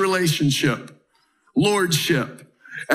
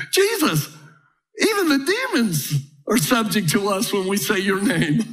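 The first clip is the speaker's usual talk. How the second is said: giddy. Acted. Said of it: "like they're giddy children going".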